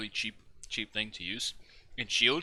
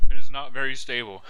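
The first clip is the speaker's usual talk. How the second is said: laughing; 2 semitones higher, 13 dB louder than usual. Real, not acted. Laughing at a flipping ship.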